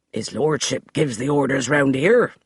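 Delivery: lightly voiced forbidding butler; stern servant blocking the door; forbidding tones. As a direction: lay down the law. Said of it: "in his most forbidding tones".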